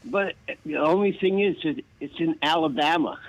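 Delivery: ordinary talk, nothing marked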